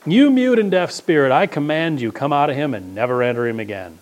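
ringing command to the spirit; commanding Jesus. Acted. Jesus commanding the unclean spirit, ringing out. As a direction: cast it out with authority. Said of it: "saying to it".

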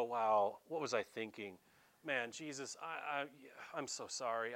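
mild contrition. Acted. Preacher voicing Peter apologising to Jesus, mildly contrite.

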